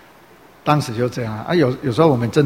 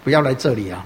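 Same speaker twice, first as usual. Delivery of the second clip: raised, scolding relative shouting him away; angry scolding; 3 semitones higher than usual. Retold or imitated. Relative scolding a believer who won't worship, angry raised scolding. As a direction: scold him like a furious elder. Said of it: "就在那边骂".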